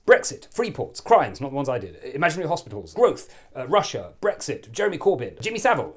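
buzzwords fired out high and loud; political pivot. Pretend. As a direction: punch each topic as a separate distraction. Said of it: "I'm gonna do one of my pivots".

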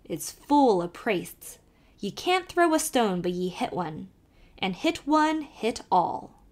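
put-on lively Irish accent, calling to the horse; old Irish driver calling out; Irish carter. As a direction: urge the nag on in a brogue. Kelly gossips about Priest Pond.

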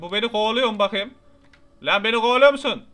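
loud, high panicked shout; being chased. Real, not acted. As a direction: yell in alarm while fleeing. Enemy chases him in game.

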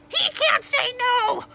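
high, slow, furious shout; exploding in outrage. A narrator's reading. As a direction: explode at the refusal. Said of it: "the man exploded".

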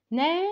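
نا sounded out as the last beat; syllable by syllable. Shown as a demonstration. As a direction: tap out نا alone. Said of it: "زي كلمة banana". (نطق المقطع الأخير نا)

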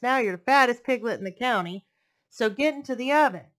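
eager fox. Acted. Fox orders.

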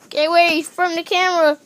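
loud tearful plea; crying out. Pretend. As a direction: cry for them to get away. Crying out near the camera.

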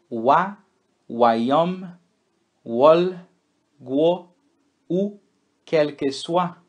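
W words sounded like U, quick run; French W drill. Shown as a demonstration. Teacher reviews the W sounds with the class. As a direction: run through the W words again. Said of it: "Esse é o som do W".

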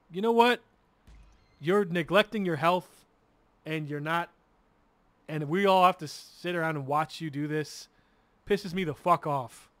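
mildly fed-up telling-off of a parent; pissed off. Retold or imitated. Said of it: "I start getting pissed 'cause I'm like".

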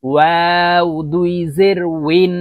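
ওয়াও drawn out with rounded lips, a clear w sound; rounded-lip waw. Shown as a demonstration. Teacher showing learners waw, ওয়াও slow with rounded lips. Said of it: "ওয়াও ঠোঁট গোল করে উচ্চারণ".

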